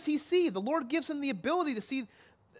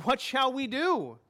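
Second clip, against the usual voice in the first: slow anxious question; 4 semitones higher than usual. Shown as a demonstration. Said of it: "and we ask".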